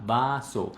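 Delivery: "vaso" with wide-open vowels; big mouth movement. Shown as a demonstration. Teacher showing the essential Spanish vowel, open-mouthed "vaso". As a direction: move the mouth a lot on "vaso". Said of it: "voy a mover mucho la boca".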